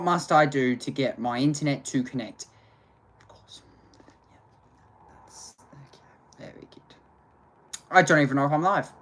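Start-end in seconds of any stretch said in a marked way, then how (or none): 3.2-6.9 resigned mutter. Real, not acted.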